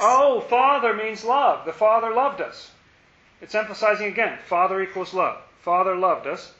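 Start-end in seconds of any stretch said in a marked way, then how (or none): 0.0-2.7 sudden realization. Real, not acted. Realizing Father means love.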